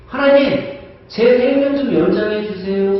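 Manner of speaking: king begging God to extend his life; pleading prayer. Pretend. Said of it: "히스기야 왕은 뭐라고 기도를 해요".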